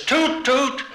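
put-on high-pitched kid calling like a train conductor, toots way up high; bossy little boy playing train on his bike; childish conductor call, squeaky toots.

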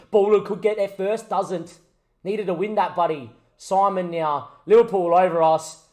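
lively football commentary; live play-by-play. Acted. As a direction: call the action as it unfolds. Live commentary on own match.

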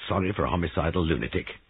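quick, disbelieving echo of "Sorry"; incredulous echo. Acted. Giles questioning Molly's pity, incredulous. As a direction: throw "homicidal lunatic" back at her quickly.

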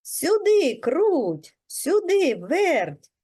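high, swooping summons; calling out. A narrator's reading. Rooster calls the mice back home, calling out. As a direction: call them over, stretching each name. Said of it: "знову кличе мишенят".

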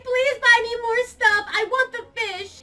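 slow, drawn-out bratty pleading. Pretend. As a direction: beg like a spoiled brat, dragging the words. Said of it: "be a little bit bratty".

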